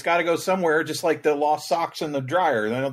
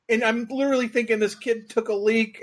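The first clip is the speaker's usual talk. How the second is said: high voice, still cracking up; laughing; 10 semitones higher than usual. Real, not acted. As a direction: try to resume the story through giggles. Teller still recovering from laughing.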